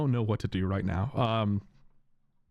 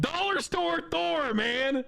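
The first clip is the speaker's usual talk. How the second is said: self-mocking jab; much slower than usual. Real, not acted. Mocking himself to chat.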